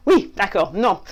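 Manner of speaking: mock French-speaking Belgian; Belgian accent. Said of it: "Stop the Belgian thing".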